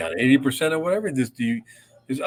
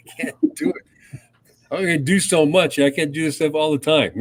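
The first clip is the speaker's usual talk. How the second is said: mock whiny protest; 4 semitones higher, 4 dB louder than usual. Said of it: "I'm just going".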